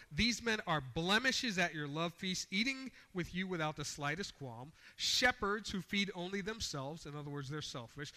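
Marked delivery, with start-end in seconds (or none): 0.1-7.1 raised, forceful denunciation; preacher hammering home a warning; emphatic scripture reading. Shown as a demonstration. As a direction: read each charge out with force. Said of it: "with the emphasis that he's writing".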